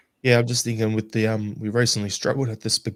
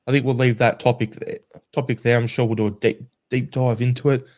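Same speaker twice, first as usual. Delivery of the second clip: strained, tired voice; losing voice. Real, not acted. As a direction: voice giving out. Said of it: "I'm losing my voice".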